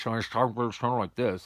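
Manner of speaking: slow words through a mouth full of gauze; mouthful of gauze. Shown as a demonstration. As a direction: show how muffled it sounds with gauze in. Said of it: "I've got a mouthful of gauze".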